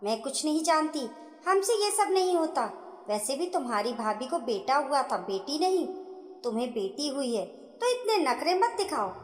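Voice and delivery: mildly irritated mother-in-law; a touch of impatient snapping; understated annoyance, brushing her off. Acted. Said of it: "सास ने झुंझलाकर कहा".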